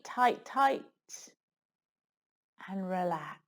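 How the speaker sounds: calm yoga nidra guidance with long pauses; unhurried relaxation-teacher voice, leaving space between phrases; guided meditation. Acted.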